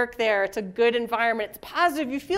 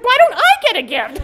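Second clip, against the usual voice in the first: mock jealous whine; 8 semitones higher, 8 dB louder than usual. Suzanne jealous of the gift.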